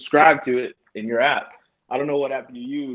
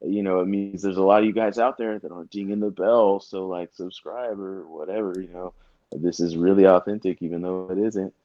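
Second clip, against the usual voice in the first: YouTuber voice; 2 semitones lower than usual. Retold or imitated. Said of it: "They do this thing where they're like".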